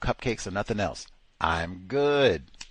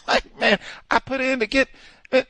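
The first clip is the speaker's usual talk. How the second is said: mock frustration; 7 dB louder than usual. Frustrated retelling, high voice.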